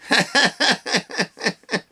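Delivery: imitated nervous laugh; a mocking nervous giggle. Mocking the politician's nervous laugh on TV with a giggle. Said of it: "one of those nervous laughs".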